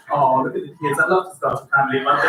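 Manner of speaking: a hint of a low, wistful childless couple; mildly mocking wistful couple; lightly voiced dreamy couple. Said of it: "a childless couple is driving past".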